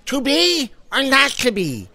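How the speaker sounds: hammed-up theatrical line, rising at the end; a hint of a stage actor declaiming; mock dramatic recitation. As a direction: ham up the famous line, then a silly question. Louie recites Shakespeare line.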